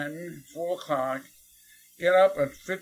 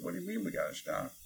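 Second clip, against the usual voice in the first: stunned disbelief; 4 semitones higher, 10 dB quieter, faster than usual. Retold or imitated. Kid stunned by teacher.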